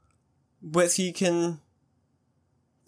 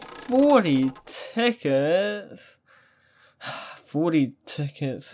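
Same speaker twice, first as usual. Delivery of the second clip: disappointed sigh; much slower than usual. Acted. Poor score after wishing luck.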